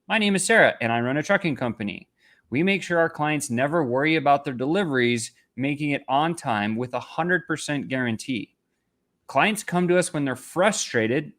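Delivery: upbeat pitch reading; good pitch read. Shown as a demonstration. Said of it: "Instead, do this".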